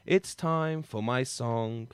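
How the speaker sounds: slow sung jingle line; drawn-out jingle. Shown as a demonstration. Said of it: "like that, just like that".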